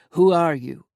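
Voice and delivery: loud, angry challenge; growled demand. Acted. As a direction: snap back at the captors. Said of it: "Gavriel growls".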